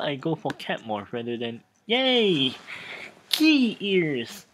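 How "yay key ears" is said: quick happy cheer; excited. Real, not acted. Streamer cheering at a lucky game result, excited. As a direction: celebrate the find out loud. New cat ears gained.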